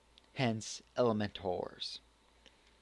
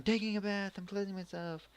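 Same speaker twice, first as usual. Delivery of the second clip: put-on higher-pitched girl character voice; anime girl; 8 semitones higher, 4 dB quieter than usual. Vlogger voicing girl caught bathing, high indignant character voice. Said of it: "And she goes".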